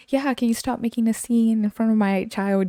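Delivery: a hint of an affronted mum; mock indignant mother. Customer scolding coworker before her child, mildly mock indignant.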